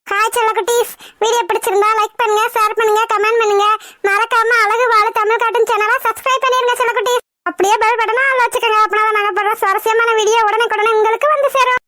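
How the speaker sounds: put-on bright call to the kids to subscribe; channel outro. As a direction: sign off the video to the little ones. (குழந்தைகளுக்கு channel முடிவுரை)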